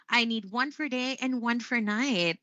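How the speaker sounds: "night" dropping at the end; quoted statement, voice falling on "night"; falling intonation. Shown as a demonstration. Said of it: "it was said this way in this clip".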